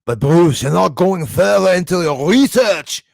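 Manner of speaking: loud, high-pitched mock Scottish rant; Scottish accent. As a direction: belt it out as an imitated Scottish attacker. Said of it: "I think it was Scottish accent".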